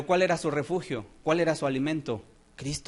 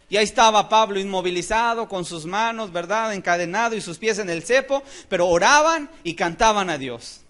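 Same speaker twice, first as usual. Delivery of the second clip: emphatic sermon storytelling; animated preacher, loud on the key words; forceful preaching; 3 semitones higher, 7 dB louder than usual. Real, not acted. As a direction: punch out the story to the congregation.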